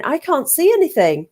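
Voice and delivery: dinner lady. Retold or imitated. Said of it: "she was going".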